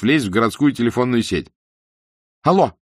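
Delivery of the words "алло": very high, loud call; frantic shout. A narrator's reading. Desperate man shouting into the microphone. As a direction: yell into the radio. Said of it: "закричал Айсман в микрофон".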